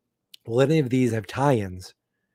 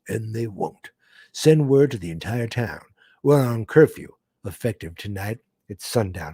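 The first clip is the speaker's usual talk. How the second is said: lightly voiced stern Western sheriff, calm then firm. Voicing the sheriff giving the town curfew order. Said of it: "That's my sheriff voice".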